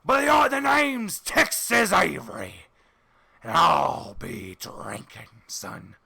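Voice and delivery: Texan tycoon drawling; Doug Dimmadome voice. Acted. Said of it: "you're doing the Doug Dimmadome voice".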